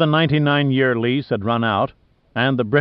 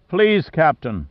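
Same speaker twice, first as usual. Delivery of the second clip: slow, higher pleading; 4 semitones higher, slower than usual. Acted. Officer begging his captain to step inside, pleading slowly. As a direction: draw out "Please" as an earnest plea. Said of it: "Angus pleaded".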